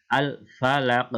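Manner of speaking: "falaq" slowly, with a bounced final q; bouncing qaf. Shown as a demonstration. Teacher showing qalqalah to pupils, bouncing q on "falaq". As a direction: release the q of "falaq" with a small echo. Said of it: "di qafnya ini memantul".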